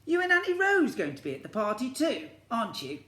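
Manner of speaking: put-on high, loud hopeful child voice; little boy Alfie. Alfie asks Mum to come to the party, high child voice. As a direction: plead it like a small boy.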